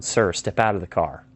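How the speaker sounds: lightly voiced officer's command; a measured hint of authority; police tone. Shown as a demonstration. Police officer orders driver out, mildly authoritative. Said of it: "It's the police tone".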